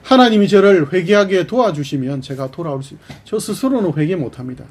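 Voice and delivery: a son crying out to God for help; Ephraim pleading. Acted. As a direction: beg God to turn you back. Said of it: "에브라임이 뭐라고 표현하죠".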